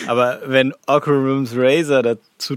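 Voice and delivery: talking through laughter; chuckling while making the point; laughing. Real, not acted. Lacht über Occam's Razor. (lachend gesprochen)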